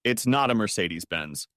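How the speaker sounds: smirking, "not" leaned on; woman teasing her boyfriend about his small car, smirking. Acted. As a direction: tease him with a smirk on "not". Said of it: "smirked Michelle".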